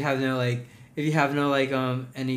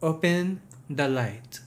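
slow mock Filipino-mom accent; put-on Filipino accent, unhurried; mom's Asian accent; 2 semitones higher, much slower than usual. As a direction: draw it out in an Asian mother's accent. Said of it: "your mom's accent".

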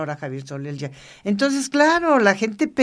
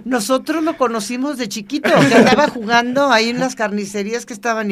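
amused retelling; 3 semitones higher than usual. Retold or imitated. Retelling people insisting, laughing.

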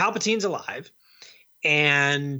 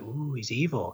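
mock-awed, hushed ooh; 3 semitones lower, 6 dB quieter than usual. Podcaster mocking the awed theater audience, hushed ooh. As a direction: mimic a spooked audience, softly. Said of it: "everyone in my audience was like".

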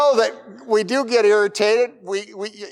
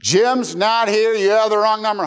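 hammed-up irritation at the caller; frustrated; 4 semitones higher, 5 dB louder than usual. Man woken at night snapping at the repeat caller, mock frustrated. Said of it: "Now he's really frustrated".

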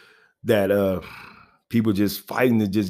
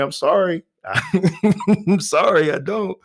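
laughing apology; 9 semitones higher than usual. Real, not acted.

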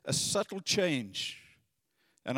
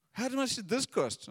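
imitating wife; 7 semitones higher than usual. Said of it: "My wife's like".

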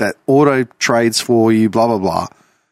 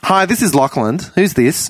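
slightly higher put-on son's voice; another voice; 4 semitones higher than usual. Prankster answering as the son Lachlan, lightly put-on voice. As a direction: lift the voice a little, playing the son. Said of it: "I put on another voice".

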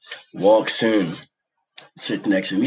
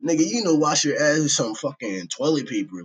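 high, loud yo that settles; shocked yell; 6 semitones higher, 3 dB louder than usual. Retold or imitated. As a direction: yell it in disbelief. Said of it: "I was like".

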